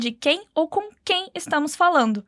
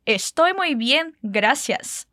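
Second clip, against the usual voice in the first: slow repeat; 2 semitones lower, slower than usual. Shown as a demonstration. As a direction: say it once more, slowly. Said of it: "Diz mais uma vez".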